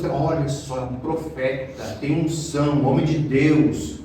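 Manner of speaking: hushed mock admiration; mock awed churchgoer. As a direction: imitate someone impressed by holy talk. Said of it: "aí fica falando umas coisas".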